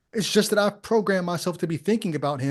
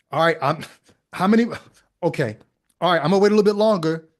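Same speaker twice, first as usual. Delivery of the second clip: loud, fast offhand counting; like a boss checking a tally; casual Jesus voice; 4 dB louder, faster than usual. Pretend. Voicing Jesus counting converts.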